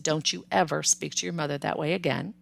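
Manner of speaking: calm stern father. Retold or imitated. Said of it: "He was very calm".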